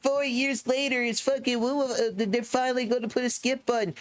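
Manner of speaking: high, whiny mock of an online commenter; mocking poster. Streamer mocking a community post, high whiny sneer. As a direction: sneer it out like a smug forum post. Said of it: "when I read these community postings".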